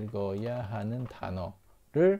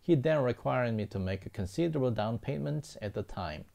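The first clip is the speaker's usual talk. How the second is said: slow example reading; much slower than usual. Shown as a demonstration. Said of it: "teacher reads example sentence".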